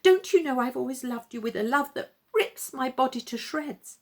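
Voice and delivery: high, aching lovesick plea; pleading puppet lover. Acted. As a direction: beg her as if your heart tears.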